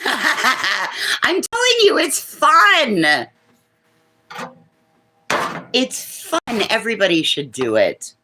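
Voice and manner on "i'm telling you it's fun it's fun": high pet voice. Pretend. Voicing the bird.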